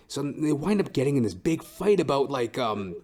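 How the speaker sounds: normal talking voice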